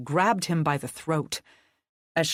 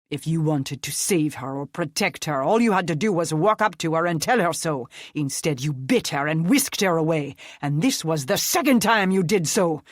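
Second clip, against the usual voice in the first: furious berating; 4 dB louder than usual. Acted. Nick berating the vampire.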